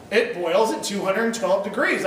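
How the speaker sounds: steady, slow and sure: "two hundred twelve degrees"; confident. Shown as a demonstration. Preacher showing the congregation a confident reply, slow and sure. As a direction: state the fact calmly and firmly. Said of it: "I'm very confident looking at you and saying".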